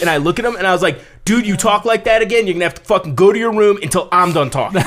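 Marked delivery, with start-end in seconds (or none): 1.2-4.8 higher, hurried mock scolding; mock threat. Friend joining the skinhead's joke, playful mock threat. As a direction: play along with a joking threat.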